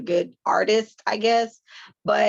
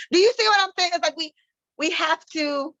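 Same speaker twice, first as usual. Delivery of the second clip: high, insistent question; emphatic; 9 semitones higher, 4 dB louder than usual. Real, not acted. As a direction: press the point hard. Emphatic appeal.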